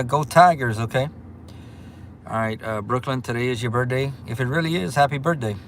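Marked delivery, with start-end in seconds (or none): 0.0-0.8 Go Tigers cheer. Shown as a demonstration. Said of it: "make sure y'all give me a".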